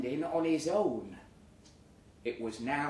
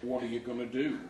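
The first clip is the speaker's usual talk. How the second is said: sneering rival. Retold or imitated. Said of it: "he said".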